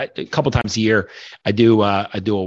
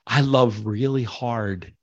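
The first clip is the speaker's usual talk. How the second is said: getting emotional; slower than usual. Real, not acted. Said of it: "and I'm getting emotional".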